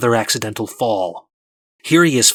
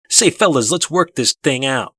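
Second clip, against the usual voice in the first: mock calm bystander; 3 semitones higher, 4 dB louder than usual. The speaker imitating people calming a confrontation, mild mock friendly voice. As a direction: play the reasonable onlooker smoothing things over. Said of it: "they'll be like".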